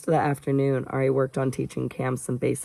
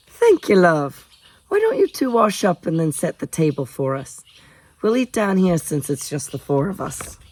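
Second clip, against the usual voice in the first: lightly voiced kindly cook; 4 semitones higher than usual. Gemma sending the two off to wash up, lightly voiced kindly host. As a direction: greet them fondly, starting high.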